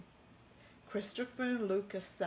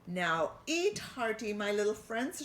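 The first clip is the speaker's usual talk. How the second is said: happy chef; 2 semitones higher, 4 dB louder than usual. Acted. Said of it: "rubbing his hands together happily".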